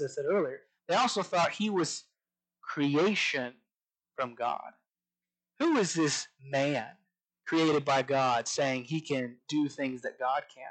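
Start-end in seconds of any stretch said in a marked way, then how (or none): 5.6-6.9 slow question, "man" drawn out; "man" held long as the point of the question; stress on "man". Retold or imitated. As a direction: lean on the word "man" and stretch it. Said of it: "the emphasis on the word man".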